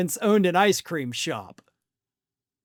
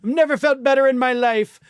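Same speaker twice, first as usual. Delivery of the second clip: a louder, higher mock boast; loud sarcastic impression of a bragging president; mock Trump boast; 5 semitones higher, 4 dB louder than usual. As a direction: puff it up like a braggart. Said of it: "The guy who insists".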